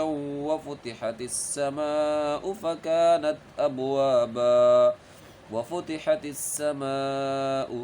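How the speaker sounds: slow, drawn-out tajweed chant; Quran recitation. Shown as a demonstration. Teacher chanting the verse for students, slow and measured. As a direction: recite each word with its full length.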